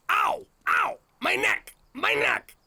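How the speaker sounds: high, hammed-up pain cries; fake injury wails. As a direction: ham up a whiplash claim. Faking injury for money.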